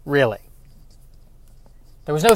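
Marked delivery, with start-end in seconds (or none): 0.0-0.4 sarcastic disbelief. Retold or imitated. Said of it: "that kind of energy of".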